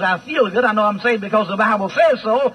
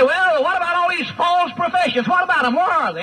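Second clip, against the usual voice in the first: mock objector; 6 semitones higher than usual. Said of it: "And you say".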